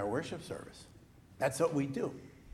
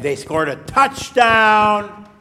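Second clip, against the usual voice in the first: louder, higher and drawn out on touchdown; excited game moment; 6 semitones higher, 14 dB louder, much slower than usual. Pretend. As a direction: hype up the big play. Building excitement at imagined game.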